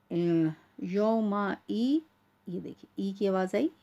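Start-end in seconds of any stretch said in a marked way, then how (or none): 0.8-2.0 "यौमा ई" very slow, every syllable drawn out; separated syllables. Shown as a demonstration. Teacher showing the hamza sound, slowly syllable by syllable. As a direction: hold each part of "यौमा ई" long. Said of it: "अलग-अलग करके पढ़ रही हूँ".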